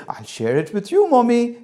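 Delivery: put-on child keen for approval; eager child. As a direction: offer it brightly, lifting high at the end. Child eagerly pleases happy mother.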